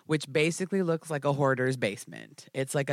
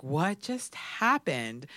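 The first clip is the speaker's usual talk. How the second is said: stunned disbelief; much slower than usual. Retold or imitated. Stunned after release.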